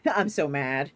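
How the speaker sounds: playful laughing gripe; laughing complaint. Real, not acted.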